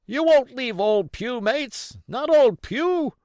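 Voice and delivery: high desperate cries for his mates; blind pirate crying out. A narrator's reading. Blind Pugh calling after his deserting crew, high desperate cries. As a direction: call out wildly, abandoned and groping. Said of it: "and other names".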